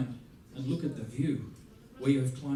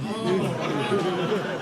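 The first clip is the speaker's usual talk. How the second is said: moved gasp; 4 semitones higher, 6 dB louder than usual. Retold or imitated. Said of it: "they're all going".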